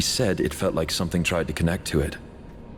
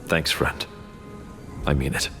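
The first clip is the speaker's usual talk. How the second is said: sincere thanks; 5 semitones lower than usual. Acted. Freed prisoner sincerely thanks a friend.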